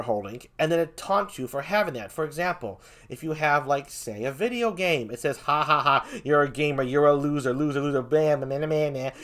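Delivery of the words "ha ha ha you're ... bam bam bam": mildly mocking jeer, run together; taunting machine. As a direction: imitate a machine teasing a thief, lightly. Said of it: "very taunting noises".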